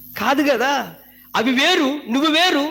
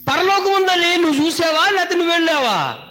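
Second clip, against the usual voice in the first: higher, pushier taunt on పరలోకం; rude scoffing; 4 semitones higher than usual. Retold or imitated. Scoffer mocking a believer about heaven, higher and rude. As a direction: sneer the question at him like a rude unbeliever.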